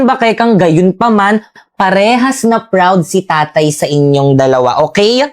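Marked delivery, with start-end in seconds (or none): 1.7-5.2 slow, lower loving father; reassuring. Acted. Father reassuring his children. (mabagal at malambing na ama)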